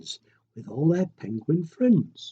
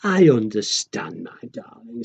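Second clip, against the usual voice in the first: tender mummy; 4 semitones lower than usual. Acted. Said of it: "said his mummy with a kiss".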